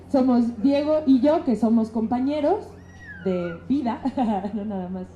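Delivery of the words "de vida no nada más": laughing. Real, not acted. Shy about being spouses.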